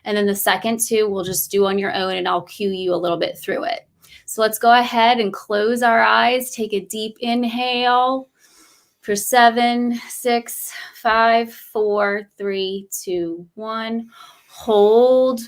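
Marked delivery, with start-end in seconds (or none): 4.3-15.4 slow, measured breath count with drawn-out cues; guided breathing meditation. Real, not acted. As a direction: guide them through each breath, unhurried.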